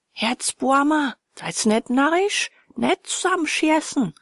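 a villager crying out over the others in Austrian dialect; excited protest. Acted.

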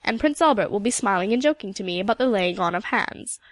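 put-on old Scottish storyteller with a lilting accent; old Highland woman. Storyteller voices Mistress McIntyre.

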